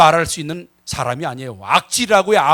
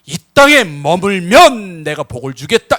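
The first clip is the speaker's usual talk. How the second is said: voicing God; 6 dB louder, slower than usual. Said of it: "하나님이 삼 절에서".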